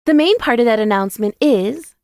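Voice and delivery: announcing with suspense. A narrator's reading. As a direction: announce high, holding back the news. Jada voiced, stalling her announcement.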